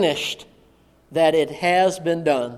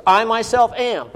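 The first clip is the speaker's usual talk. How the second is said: "I myself am" repeated firmly, pitched higher; emphatic stress; 4 semitones higher, 3 dB louder than usual. Shown as a demonstration. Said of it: "It's for emphasis".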